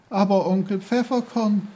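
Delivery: hoch und erschrocken gerufen; bestürzt den Onkel anrufen; entsetzter Ausruf. A narrator's reading. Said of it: "rief er entsetzt". (Peter ruft erschrocken nach dem nassen Onkel)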